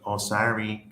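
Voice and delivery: lightly imitated Chinese accent. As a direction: mimic a shop worker with a slight Chinese accent. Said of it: "Sorry, I'm doing the accent".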